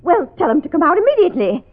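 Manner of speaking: emphatic, affronted command; indignant order. Acted. Schoolteacher orders the man out of her car, indignant.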